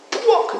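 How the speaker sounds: high, loud "buak"; imitated thud. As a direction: burst out the crash noise, high. Imitates being thrown down.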